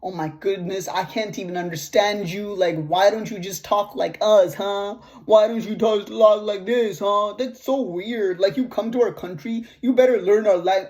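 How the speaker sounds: imitating an annoyed woman at a counter; mock pissed-off customer. Canadian customer scolding an immigrant cashier over her accent, mock indignant. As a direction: play a mildly exasperated, complaining customer. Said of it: "getting so pissed off".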